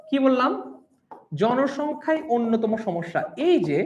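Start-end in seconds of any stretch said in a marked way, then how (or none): 1.4-3.2 slow, drawn-out জনসংখ্যাই before the rest; emphatic, stretched জনসংখ্যাই; stress on জনসংখ্যাই. Shown as a demonstration. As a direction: lean on জনসংখ্যাই to strengthen the claim. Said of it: "একটু জোর দিলাম না".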